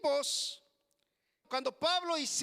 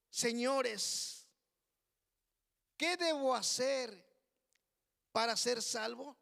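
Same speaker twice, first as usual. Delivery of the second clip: humble, trembling plea; 5 semitones lower than usual. Retold or imitated. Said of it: "con sencillez de corazón les dijo". (súplica humilde, en voz baja)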